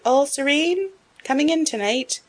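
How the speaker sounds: loud, high call from the street below. A narrator's reading. Passer-by calls up to Beth at the window, loud and high. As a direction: hail her cheerily from outside, loud and high. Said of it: "a voice called out".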